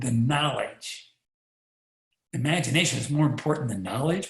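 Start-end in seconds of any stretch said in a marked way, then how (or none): 2.3-4.3 mock disbelief at the quote; incredulous echo. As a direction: repeat the quote as a doubting question, rising at the end on knowledge. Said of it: "Wait a minute".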